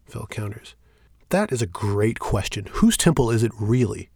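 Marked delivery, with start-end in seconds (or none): 1.3-4.1 challenging. Acted. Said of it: "Shane challenges".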